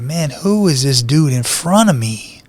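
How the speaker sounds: amazed thought about the stranger; awed inner thought. Retold or imitated. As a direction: think it slowly in amazement. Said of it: "I'm like".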